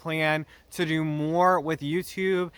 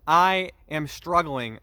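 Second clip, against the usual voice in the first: slow, weighty stress on "struggling"; emphasis on struggling; slower than usual. Real, not acted. Vlogger pleading for understanding from viewers, emphatic on "struggling". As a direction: draw out "I am struggling", leaning on "struggling". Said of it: "Emphasis on the word struggling".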